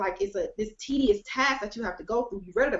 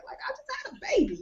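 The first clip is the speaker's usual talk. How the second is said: excited; 4 dB quieter, much faster than usual. Retold or imitated. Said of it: "I was excited like that".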